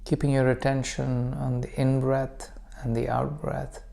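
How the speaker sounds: calm meditation guide with long pauses; guided meditation. Acted. Teacher leading listeners into breath practice, calm guided meditation. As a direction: guide them gently, unhurried, leaving room to breathe.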